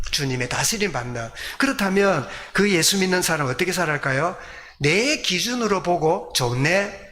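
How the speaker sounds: ordinary delivery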